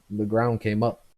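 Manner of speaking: put-on loud, slurring drunk man; a tipsy man brushing off his fall; drunk old man. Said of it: "picks himself back up and goes".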